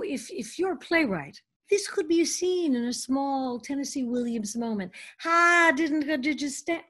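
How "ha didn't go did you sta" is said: put-on mild Southern accent, higher. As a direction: play a Southern belle for a beat, lightly. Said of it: "I was doing a Southern accent".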